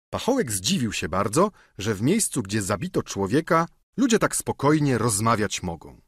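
plain reading voice

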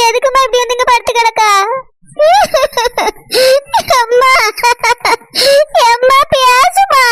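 tearful pleading. Acted. Daughter weeps over bedridden mother.

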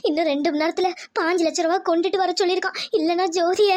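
tearful account of a threat; crying. Acted. Lakshmi telling family of the ransom demand, crying. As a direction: break into sobs at the end. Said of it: "Lakshmi, எதுக்குடி அழுகுற?".

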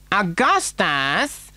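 high, long-drawn mother's call; Missus Gloop calling out. A narrator's reading. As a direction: sing out the boy's name, stretched. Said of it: "called out Missus Gloop".

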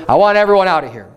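mildly acted calling out; crying out. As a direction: call it out so everyone hears. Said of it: "He cries out so everyone could hear him".

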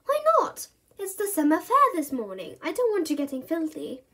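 a mum worried about mess; exasperated mum. Acted. Mum warns Bertie about the fair, exasperated.

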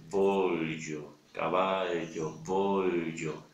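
voglio and caballo alternated slowly, same palatal l; compared ll and gli. Shown as a demonstration. (voglio y caballo comparados, despacio)

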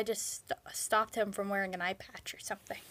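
whispered aside; quick breathy whisper. Real, not acted. Aside while watching old video.

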